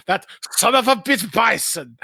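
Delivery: lightly imitated Guile, stretching the words; drawn-out delivery. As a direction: drag the line out like the movie hero. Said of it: "the way he draws that out".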